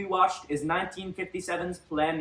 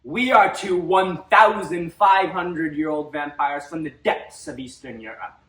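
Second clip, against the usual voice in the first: booming demon lord; 6 dB louder than usual. Acted. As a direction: declaim like an ancient vampire lord. Vampire host grand introduction.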